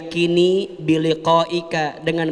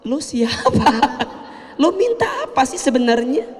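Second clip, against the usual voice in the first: irritated boss; 7 semitones higher than usual. Retold or imitated. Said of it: "kata bosnya".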